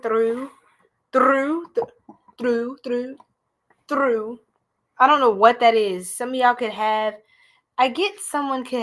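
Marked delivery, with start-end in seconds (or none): 0.0-4.4 "through" repeated in a tentative, possibly Hispanic accent. Shown as a demonstration. Reader puzzling over a heard accent, accented repeats of "through". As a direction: test the accent on "through", word by word. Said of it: "Somebody can have an accent".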